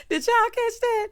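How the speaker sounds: high shrieking laughter, then asking; loud laugh. Real, not acted. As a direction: laugh out loud and ask the audience. Host laughs loudly.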